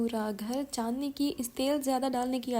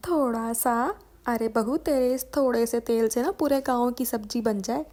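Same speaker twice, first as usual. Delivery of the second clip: louder, indignant scolding about the oil; mother-in-law telling off the daughter-in-law; 6 dB louder than usual. Acted. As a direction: scold her over the oil loudly.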